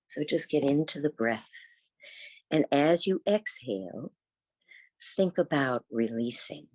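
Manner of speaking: unhurried yoga teacher's guidance, long pauses between thoughts; guided meditation. Real, not acted. Teacher guides seated students into the breath, guided meditation. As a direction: guide them gently inward, leaving space after each phrase.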